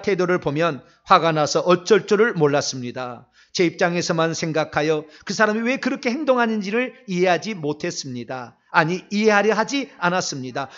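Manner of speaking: measured, formal read-aloud repentance prayer; recited confession. Real, not acted. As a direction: read out a confession line by line, each sentence falling at the end. Reads out a confession of sins.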